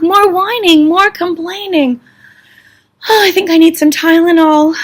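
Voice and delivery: loud, high, hammed-up disbelief; exasperated.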